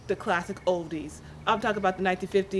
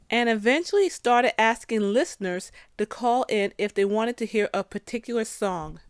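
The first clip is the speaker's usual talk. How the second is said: measured scripted radio-feature read; documentary narration. A narrator's reading. Host reads Art Laboe's life story, measured narration. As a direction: narrate a biography evenly over music.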